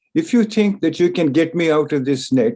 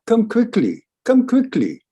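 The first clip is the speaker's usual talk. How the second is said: urgent call; 8 semitones higher than usual. Acted. Cat urging mouse to come.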